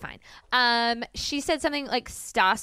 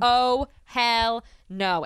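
oh hell no; much slower than usual. Retold or imitated. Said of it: "I was like".

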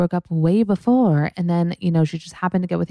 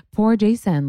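higher, pitying Poor Jason with a falling end; mock pity; 6 semitones higher, 3 dB louder than usual. Shown as a demonstration. Catching herself pitying Jason, higher mock sympathy. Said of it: "see, I'm doing it".

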